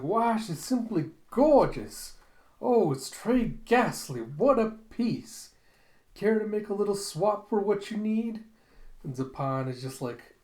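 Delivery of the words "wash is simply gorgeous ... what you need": high, loud, swooping gush; gushing madam. Acted. Madam admires a severed head, high theatrical gushing. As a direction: draw it out in theatrical rapture. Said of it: "And she's like".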